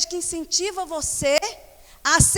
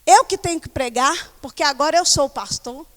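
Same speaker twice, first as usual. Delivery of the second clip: arrogant self-appointed pastor; 7 dB louder than usual. Retold or imitated. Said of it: "Assim enxerga".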